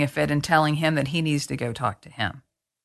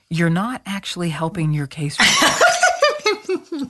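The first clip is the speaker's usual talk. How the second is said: laughing through the words; amused, slowed-down retort; slower than usual. Retold or imitated.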